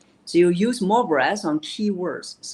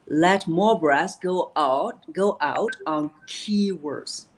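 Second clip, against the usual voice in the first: slow, push extra breath out on "go out" and "key words"; breathy stress on key words; slower than usual. Shown as a demonstration. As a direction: let air pour out on each key word. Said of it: "just like what I demonstrated".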